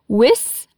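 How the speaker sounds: "With" with a clear final TH; th sound in with. Shown as a demonstration. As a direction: end "With" with the tongue between the front teeth. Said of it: "coloca a língua no meio dos dentes e fica with".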